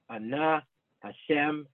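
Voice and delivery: Ana and Hashem stressed on their final syllables; last-syllable stress. Shown as a demonstration. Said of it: "has stress in the ultimate syllable".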